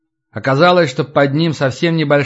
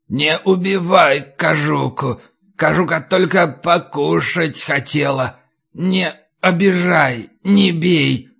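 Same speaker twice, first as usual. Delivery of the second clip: put-on creaking old crone, anxious pleading; creaky old voice; 2 semitones higher, slower than usual. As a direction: beg over and over like a frail crone. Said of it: "без конца повторяло скороговоркой". (скрипучий голос, испуганная мольба)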